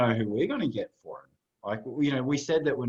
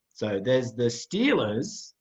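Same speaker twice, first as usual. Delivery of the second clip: slow; much slower than usual. Real, not acted. Drawing out a visual joke.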